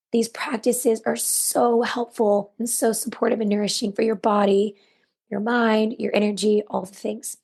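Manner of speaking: hoarse, raspy voice; worn-out raspy throat. Real, not acted. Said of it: "I apologize for my raspy voice".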